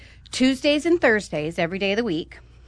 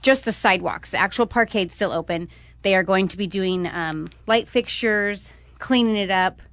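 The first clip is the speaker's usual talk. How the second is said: out of breath. Real, not acted. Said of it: "Sorry, I'm out of breath".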